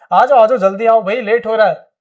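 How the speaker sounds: loud impatient call to a friend; calling out to hurry. Acted. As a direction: hurry him along, loudly.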